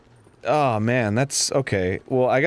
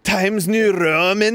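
drawn-out, mock grand; slow grand delivery; 4 semitones higher, slower than usual. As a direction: stretch it out grandly. Font names said slowly.

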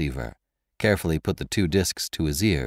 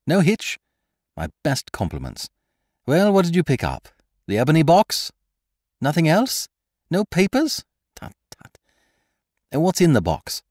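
higher, brisk and eager phone talk; Lupin on the phone; 7 semitones higher, 4 dB louder than usual. Acted. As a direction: question the accomplice quickly.

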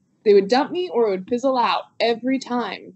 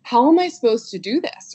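raised-pitch mock exasperation; retold frustration; 5 semitones higher than usual. Coach recalling being dumped after love letter, frustrated. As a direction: imitate your baffled, frustrated past self. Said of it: "so frustrated and so confused".

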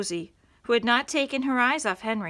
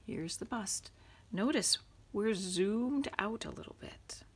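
soft whisper to the audience; whispered aside; 7 dB quieter than usual. Real, not acted. Reader whispering a side note to the viewers.

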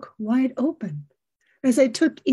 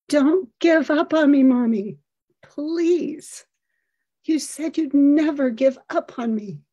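desperate plea; 3 semitones higher than usual. Retold or imitated. Son crying out to his mommy, desperately pleading. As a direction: plead with her not to abandon you.

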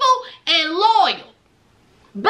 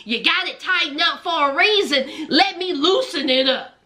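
mock man's voice; 5 semitones lower than usual. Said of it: "he was like".

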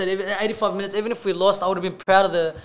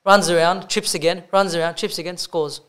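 Ray Hadley commentary; 3 semitones lower than usual. Retold or imitated. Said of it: "Ray Hadley's commentary".

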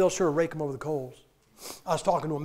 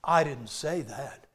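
mock innocence; 5 semitones lower, 3 dB quieter, much slower than usual. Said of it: "He said this just so innocently".

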